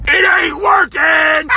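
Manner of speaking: loud defiant cry. Real, not acted. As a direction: throw it back at the haters. Defiant shout at haters.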